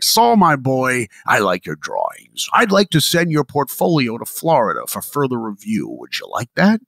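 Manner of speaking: lightly voiced kindly old man, unhurried; old animator's voice. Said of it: "He had this cool voice".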